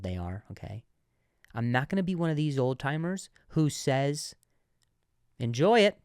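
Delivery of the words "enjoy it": mocking old timer.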